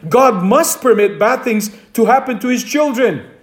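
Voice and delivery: "must" stressed as a statement of fact. Real, not acted. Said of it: "the emphasis is on the word must".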